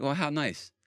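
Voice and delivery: mock the naive believers with fake sweetness; sarcastic mock. Mocking people who think being good saves you, sarcastic.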